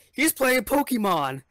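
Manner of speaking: high, slow, tattling classmate; tattletale voice. Retold or imitated. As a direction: sing it out like a snitch. Classmate tattles on Pokemon player.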